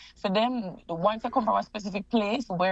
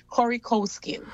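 curry cow skin said again, higher and clearer; repeated clearly; 4 semitones higher than usual. Real, not acted. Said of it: "Curry what?".

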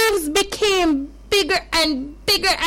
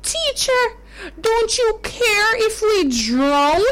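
frightened plea; 6 semitones higher than usual. Acted. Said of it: "The disciples woke Jesus and said".

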